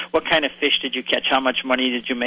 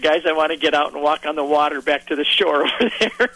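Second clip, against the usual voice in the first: laughing. Real, not acted. Joking about seasickness, laughing.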